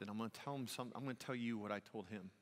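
ordinary talk, nothing marked

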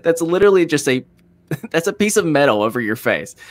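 mildly exasperated protest, pitched high at first; mock-upset objection; retold upset. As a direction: replay your own indignation, with a small laugh midway. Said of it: "I was also upset of saying".

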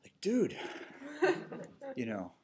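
whispered aside. Real, not acted. Aside to audience.

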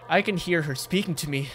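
earnest, restrained character reading; serious mode. Acted. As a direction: play it straight and serious. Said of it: "Serious mode".

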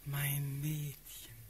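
slow, lingering sleepwalker's endearments; dreamy tenderness. Acted. Sleepwalking Prince to his beloved, dreamy and tender.

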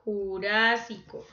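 Jurásico with RÁ punched and stretched; teacher marking the RÁ of Jurásico; stress on the third-last syllable. Shown as a demonstration. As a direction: lean hard on the RÁ in Jurásico. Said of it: "Sería esdrújula".

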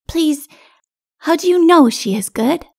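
put-on high, pleading child voice; little child asking. A narrator's reading. Little one questioning king, pleading child. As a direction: ask earnestly in a small child's voice.

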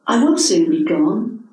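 dignified. Acted. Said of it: "he said with dignity".

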